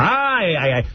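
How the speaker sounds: a hint of a sanctimonious talk host; imitating Rosie. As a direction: parody her preachy stammering monologue. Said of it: "This monologue she's doing".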